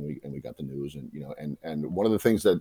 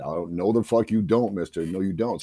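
snapped; 3 semitones higher, 4 dB louder than usual. Retold or imitated. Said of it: "and I snapped".

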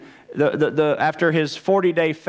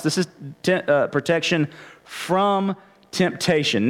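"from" held out and set apart; stress on FROM. Shown as a demonstration. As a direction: pause either side of a weighty "from". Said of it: "I'm emphasizing from here".

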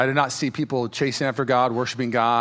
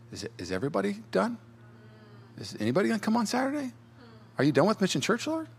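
anxious hushed thoughts; 7 semitones higher, 6 dB quieter, faster than usual. Retold or imitated. Anxious inner thoughts to God.

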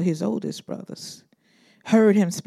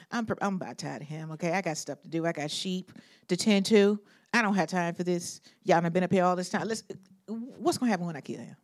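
fed-up mutter; 6 dB quieter, faster than usual. Retold or imitated. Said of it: "David is standing there like".

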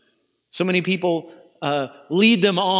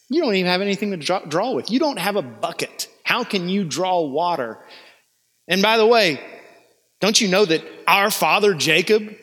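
sarcastic woman. Acted. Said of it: "her answer is sarcastic".

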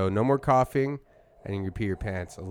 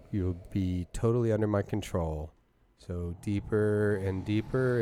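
slow hypnotist voice; 2 semitones lower than usual. Pretend. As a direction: soothe him toward sleep. Hypnotizing Randy.

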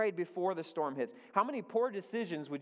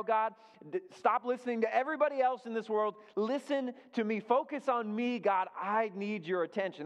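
pleading, higher and faster toward the end; urgent prayer; 5 semitones higher than usual. Retold or imitated. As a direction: hammer on the door, demanding God's attention. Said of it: "it's an urgent prayer".

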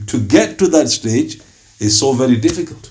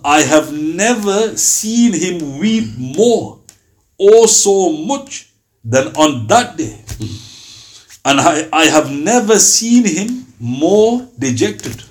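grieving; 4 semitones higher, much slower than usual. Acted. Emotional quote of grieving companion.

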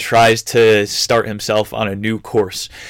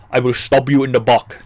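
lightly voiced Italian accent, "buck" for back; a hint of a Sicilian cook; mock Sicilian accent. Sicilian cooks threaten Anthony, lightly mock Sicilian accent. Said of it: "That's how the Sicilians would say it".

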